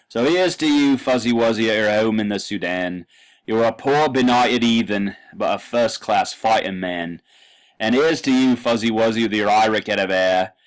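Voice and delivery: put-on loud, hammy drunk Cockney accent. Shown as a demonstration. Lecturer hamming up a drunk Cockney reciting Kipling, loud. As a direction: bellow the toast like a tipsy Cockney soldier. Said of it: "it's supposed to be a drunk Cockney ... spouting out the poetry".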